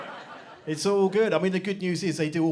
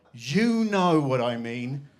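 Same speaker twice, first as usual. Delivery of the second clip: slow then louder, pointed complaint; exasperated teen; 7 dB louder, slower than usual. Retold or imitated. Daughter scolding her pregnant mother, mock outrage. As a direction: drive it home like an outraged teen. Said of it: "She went".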